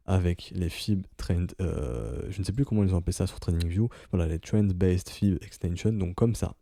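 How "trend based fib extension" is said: English trading term in a thick French accent. Real, not acted. Trader naming a charting tool to viewers, French-accented English. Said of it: "désolé pour mon accent pourri".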